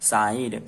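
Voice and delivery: साइड said as a stretched "saa-eed"; long I sound. Shown as a demonstration. Teacher answers what the letters make, long I in साइड. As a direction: glide from "aa" into "ee" in साइड. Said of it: "आ की मात्रा इसमें जुड़ेगी".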